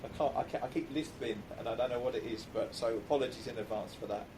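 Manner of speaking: slight lisp, swollen tongue; talking around a swollen tongue; with a sore tongue. Real, not acted. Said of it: "my tongue is swollen".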